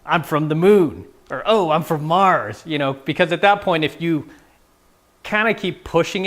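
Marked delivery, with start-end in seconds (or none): 0.1-2.6 mock teasing. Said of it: "keep teasing her like".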